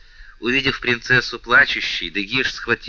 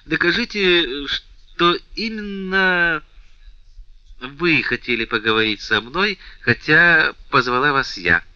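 insistent; 6 semitones higher, 3 dB louder than usual. A narrator's reading. Princess presses the count.

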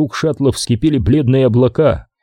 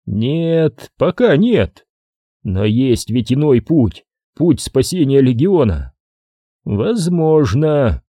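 prophetic trance voice; 3 semitones higher, slower than usual. Acted. Oracle answers Ariman.

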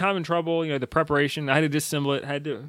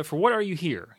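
"what" lifted, falling away on "here"; stress on WHAT; 3 semitones higher than usual. Shown as a demonstration. Vlogger explaining to viewers where emphasis goes, stress on "what". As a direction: lift "what", let "are you here" drop. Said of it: "all the emphasis on the".

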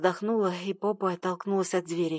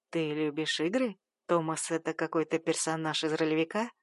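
a hint of a low male voice; lightly voiced teasing stranger; a touch of a husky male voice; strange man; 4 semitones lower than usual. Man voiced in romance story.

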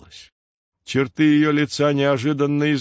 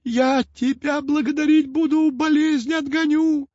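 put-on high, whimpering old-witch plea; whining hag. A narrator's reading. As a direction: whine pitifully like a crone begging. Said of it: "заныла она опять". (ноющая старуха)

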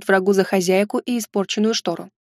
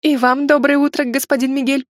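higher-pitched, carefully courteous; polite greeting; 4 semitones higher than usual. Acted. Heroine greeting the ghostly cat, nervously polite. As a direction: greet politely, holding nerves in check. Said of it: "вежливо поздоровалась, пытаясь успокоиться".

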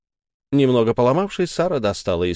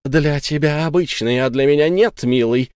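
angry gritted words; 4 semitones higher, 3 dB louder than usual. Acted. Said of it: "с гневом процедила Сара".

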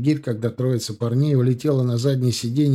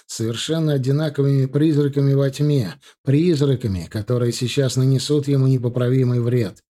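usual speaking voice

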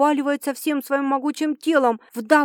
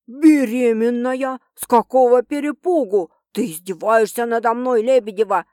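incredulous producer; 4 dB louder than usual. Acted. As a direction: drag out the disbelief. Producer reacts to pregnancy news.

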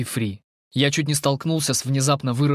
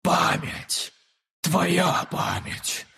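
choppy creature whisper; 5 semitones higher, much slower than usual. Acted. The creature demands the sphere, in choppy whispers. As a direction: spit out the words half-swallowed. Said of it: "звучал отрывисто, будто она проглатывала".

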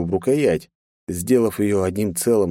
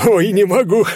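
high, louder laughing cry; 13 semitones higher, 7 dB louder than usual. A narrator's reading. Лёха can't stop laughing at the joke, laughing. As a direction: crack up helplessly. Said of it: "опять заржал".

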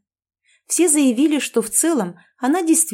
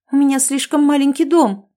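higher, louder startled excuse; frightened; 6 semitones higher, 6 dB louder than usual. Acted. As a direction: blurt it out in alarm. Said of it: "испугалась Нонна".

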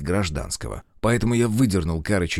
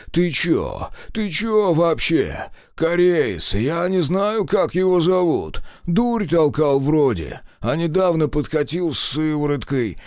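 panicked babble; 7 semitones higher, slower than usual. A narrator's reading. Captive pinned to a tree, panicked pleading. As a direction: blurt everything out in panic.

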